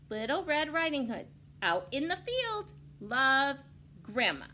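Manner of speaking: high, loud folksy granny; old granny note. Acted. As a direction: read like grandma wrote it. Grandma's note.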